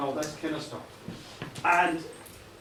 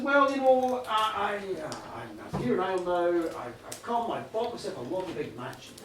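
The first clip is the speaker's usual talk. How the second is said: put-on American accent. Billionaire tells Pat about his new home, put-on American accent. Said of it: "I'm gonna drop the accent now".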